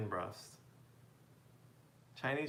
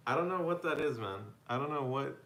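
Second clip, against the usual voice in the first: baffled outburst; 3 semitones higher, 5 dB louder than usual. Real, not acted. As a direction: throw up your hands, truly lost. Baffled by a viewer's dish.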